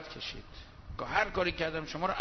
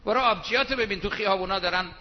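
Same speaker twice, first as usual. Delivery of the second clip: loud, fast jeering insult; louder fast mock taunt; 2 semitones higher, 5 dB louder, faster than usual. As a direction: rattle off the jab loudly. Acts rude insulting retort.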